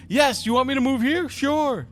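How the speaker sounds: very high, loud silly compliance; high mock voice. Game master mimicking a character agreeing to move, high-pitched. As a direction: play an over-eager yes in a squeaky pitch.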